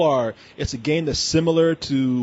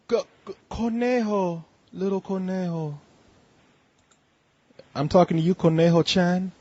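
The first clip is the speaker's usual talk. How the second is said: mock Hispanic accent; 4 semitones higher than usual. Host greeting caller Conejo on air, in a mock Hispanic accent. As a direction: lean into a put-on Hispanic accent, teasing. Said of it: "I thought I was doing, like, a, uh, Hispanic accent".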